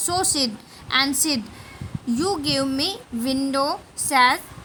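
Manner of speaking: slow, word-by-word English read-aloud; slow story reading. A narrator's reading. Teacher reading the Tom and Sid story to pupils, slow and deliberate. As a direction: read it out slowly, pausing between phrases.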